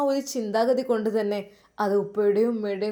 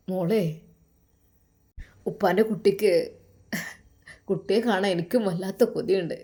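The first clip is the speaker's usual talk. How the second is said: a lightly lowered, caring father on the phone; lower father's voice; 3 semitones lower than usual. Acted. Father on the phone to his daughter, lightly lowered caring voice. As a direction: speak as a gentle worried dad.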